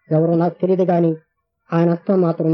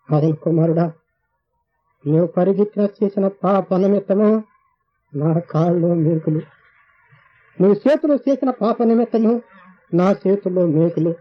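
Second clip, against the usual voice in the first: voice of Jesus; slower than usual. Retold or imitated. Jesus speaks in the vision.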